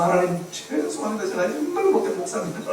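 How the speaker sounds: acted contrite plea in a softened voice; retold begging apology. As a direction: imitate a pastor begging God's forgiveness quietly. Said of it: "싹싹 끓였다는 거 아닙니까".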